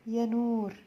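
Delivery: high, loud call across the house; mom calling. A narrator's reading. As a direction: call the child's name from afar. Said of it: "خرج منه صوت ماما الحقيقي".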